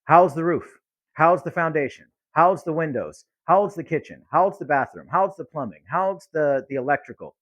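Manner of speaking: rapid-fire checklist questions; interrogating tone. Shown as a demonstration. A pushy caller grilling the homeowner, clipped questions. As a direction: grill them item by item. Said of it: "No one wants to answer questions like that".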